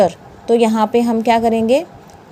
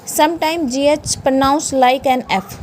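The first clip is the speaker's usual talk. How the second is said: slow rule reading; 2 semitones higher, much slower than usual. Shown as a demonstration. Reads the rule out slowly.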